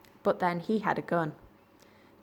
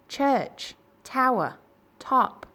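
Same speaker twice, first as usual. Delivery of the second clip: loud, higher shout, word by word; deepest voice, slow and loud; 7 semitones higher, 6 dB louder, much slower than usual. Acted. Cyril answers Andrew from the tower, loud and slow. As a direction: boom each word separately. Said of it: "in his deepest voice, very slow and loud".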